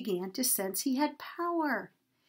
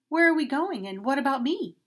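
higher, louder frightened repeat; frightened plea; 4 semitones higher, 6 dB louder than usual. Acted. Donkey pleading with the men, frightened and higher. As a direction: ask again, more scared and urgent. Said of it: "And then said again".

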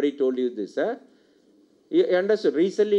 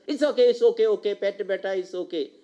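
soothing; faster than usual. Acted. Soothing someone in relaxed mode.

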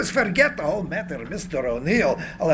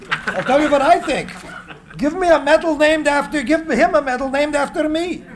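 mocking laugh; 6 semitones higher than usual. Tesla mocks the medal idea.

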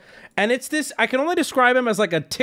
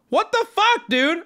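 retold outrage in a high-pitched voice; feral outburst; 10 semitones higher than usual. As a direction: act out going feral, pitched way up. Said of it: "I go feral".

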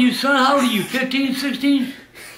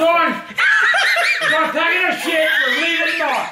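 angry shout. Real, not acted. Grandpa storms at commenter.

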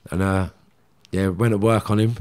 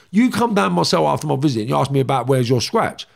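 raised-voice retold confrontation; mildly re-enacted row; retold screaming; 4 semitones higher, 4 dB louder than usual. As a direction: reel off the accusation, a bit higher. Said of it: "screaming at him when I'm talking".

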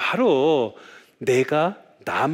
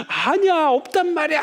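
mock crying child; 13 semitones higher than usual. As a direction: imitate a tantruming kid protesting to mum. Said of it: "하면서 막 우는 거예요".

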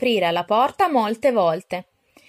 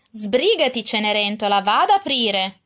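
bossy order; 4 dB louder than usual. Acted. Araminta orders Cinderella to get the door, mildly bossy. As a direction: order the servant girl about, lightly bossy. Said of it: "ordinò Araminta".

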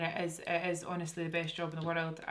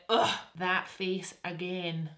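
disgusted groan; much slower than usual. Retold or imitated. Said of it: "sometimes I'm like".

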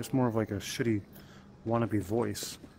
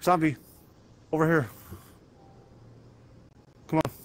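raised, louder call; 5 semitones higher, 3 dB louder, much faster than usual. Pretend. Player luring a zombie over, calling out. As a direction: call the zombie over in short loud bursts.

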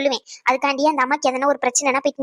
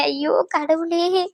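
drawn-out, very slow wail to God; lament; much slower than usual. Acted. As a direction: wail it out slowly, stretching the words. Distressed mother lamenting about her son. (புலம்பலாக இழுத்து)

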